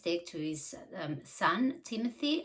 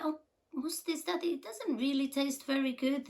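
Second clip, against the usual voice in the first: put-on higher childlike voice, puzzled; a hint of a small boy disliking the taste; young son complaining; 6 semitones higher than usual. Son telling daddy the candy tastes wrong, puzzled. Son tasting the bitter powder.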